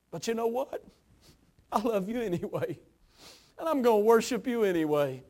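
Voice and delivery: softened, yielding devotion; tender surrender. Acted. Mary turns from complaint to devotion.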